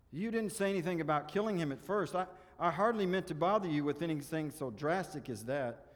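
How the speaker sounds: lightly acted fluster; flustered protest. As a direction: backpedal nervously. Ghost protests at killing lizard.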